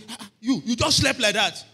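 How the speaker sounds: wife's exclamation. Retold or imitated. Wife complaining he slept.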